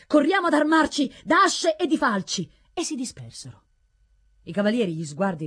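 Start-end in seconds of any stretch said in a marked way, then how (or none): 0.1-2.5 loud, high urgent shout; raised, alarmed yell; rallying cry. A narrator's reading. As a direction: call the villagers to arms. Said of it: "gridarono quelli".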